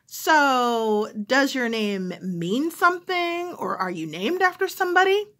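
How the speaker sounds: a nosy caller wandering off topic; curious caller. Retold or imitated. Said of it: "the person who's calling".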